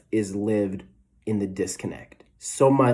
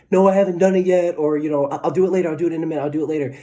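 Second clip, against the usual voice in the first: put-on higher, whining kid voice, stalling; whiny kid excuse; 5 semitones higher, 4 dB louder, much faster than usual. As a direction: play the kid putting off chores. Kid dodging mom's chore question.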